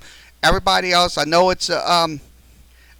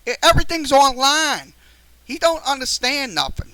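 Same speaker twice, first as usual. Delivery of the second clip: frustrated outburst; 6 semitones higher than usual. Real, not acted. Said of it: "I'm getting very frustrated with this today".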